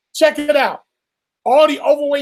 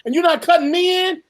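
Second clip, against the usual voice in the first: indignant, raised and higher; mock furious Congress; 3 semitones higher than usual. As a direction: play the offended boss. Congress voiced as furious boss.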